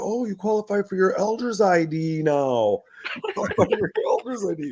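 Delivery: very high, all-excited chirping delivery. Retelling how the ID office reacted to an old ID: imitating excited staff. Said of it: "they got all excited".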